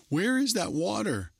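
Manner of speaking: high, sharp panicked shriek; frantic cry for the missing water. A narrator's reading. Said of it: "she shrieked".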